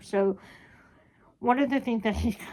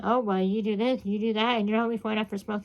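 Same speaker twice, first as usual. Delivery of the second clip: snarky mimicry. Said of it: "making all these snarky comments".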